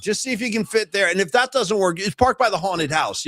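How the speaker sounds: a hint of a cheery attendant; lightly voiced parking attendant. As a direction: play a parking helper improvising directions. Acts out offhand stadium parking attendant.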